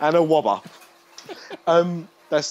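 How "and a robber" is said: robber said as "wobber", r softened to w; says w for r. Acted. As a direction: say "wobber" with a w in place of the r. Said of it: "that's Monty Python joke".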